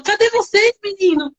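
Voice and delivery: high, fond calling out; affectionate call. Retold or imitated. Nanny in a video to the boys she misses. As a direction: call out to the kids you miss. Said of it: "eu fico falando".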